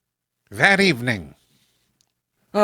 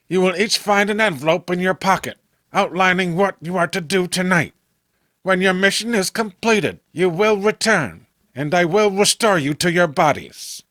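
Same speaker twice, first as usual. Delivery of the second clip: brisk, clipped-short commands, fast at the start; a touch of irritation, pushing through the instructions; crackling impatience; 3 semitones higher than usual. Acted. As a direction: rattle off the orders, out of patience. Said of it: "now crackling with impatience".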